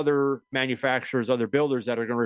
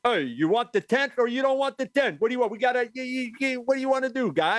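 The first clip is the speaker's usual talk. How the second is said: gruff Jersey Teamster barking; tough union guy; 10 semitones higher than usual. Retold or imitated. Acting tough union crew boss.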